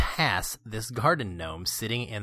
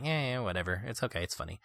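lukewarm, trailing off softer; indifferent shrug; 7 dB quieter, faster than usual. Retold or imitated. Host recalls his reaction to the Minions short, lukewarm shrug. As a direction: concede it with a mild verbal shrug. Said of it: "I was kinda like".

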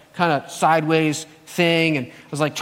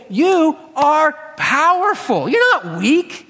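divine voice; 7 semitones higher, slower than usual. Retold or imitated. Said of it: "I heard the voice say".

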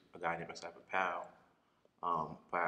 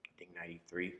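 whispered aside; 5 dB quieter than usual. Real, not acted. Unsure about dates.

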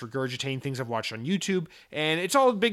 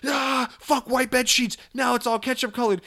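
hammed-up prank shout; 9 semitones higher than usual. Girlfriend sprays ketchup over the bed, hammed-up shouting. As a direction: holler it high, like a wild prankster.

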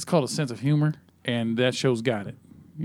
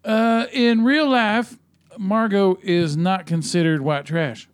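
announcer voice; 7 semitones higher, 4 dB louder, slower than usual. Acted. Sudden high slow voice.

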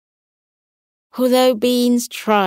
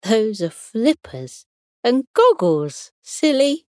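cat voice; 5 semitones higher than usual. Acted. Beans voiced in a story.

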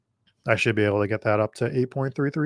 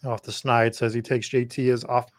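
hoarse voice. Real, not acted. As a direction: voice going hoarse. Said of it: "I'm losing my voice".

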